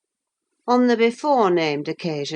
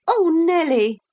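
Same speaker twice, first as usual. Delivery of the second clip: higher, pouting complaint to Nelly; petulant; 12 semitones higher than usual. Acted. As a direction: fret at the maid. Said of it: "she added petulantly".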